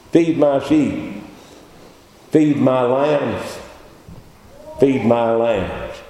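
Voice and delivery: slow, solemn command; Jesus speaking. Retold or imitated. Jesus charging Peter, slow and solemn. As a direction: lay each word down gravely. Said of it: "He said".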